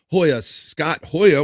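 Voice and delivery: slow stretched hype call of Hoya; drawn-out call. Real, not acted. Streamer greeting a chatter with a slow stretched hype call. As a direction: stretch out the Hoya like a rally cry.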